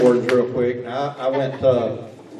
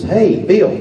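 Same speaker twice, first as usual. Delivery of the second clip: hollering outside; 9 semitones higher than usual. Retold or imitated. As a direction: holler it out the door to someone outside. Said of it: "he just hollers outside".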